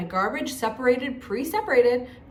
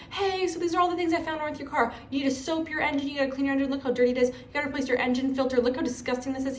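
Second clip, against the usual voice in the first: lightly voiced technician, pitched higher; imitated technician; 4 semitones higher, faster than usual. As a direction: mimic a technician presenting findings on video. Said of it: "this technician who wears a helmet with a camera on it".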